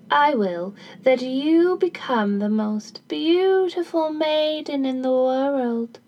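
slow, drawn-out fairy pronouncement; lightly voiced fairy, stretching out the words; fairy's blessing. Fairy grants the maiden beauty, slow solemn blessing.

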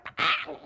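short imitated newborn wail; squawking baby noise. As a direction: mimic a hungry baby's cry. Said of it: "It's that crying".

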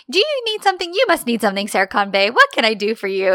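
mock over-eager fussing over the boss; patronizing. Assistant offering to help Serkan Bey, patronizing. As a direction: imitate someone humoring him like a little kid. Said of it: "it's, like, patronizing".

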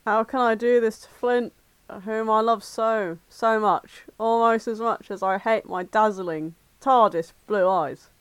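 earnest romantic heroine's monologue; dramatic fan fiction reading. A narrator's reading. Friend reading the heroine's guilt over Flint, dramatic reading. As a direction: read it as lovelorn inner thoughts. Second reader takes heroine's lines.

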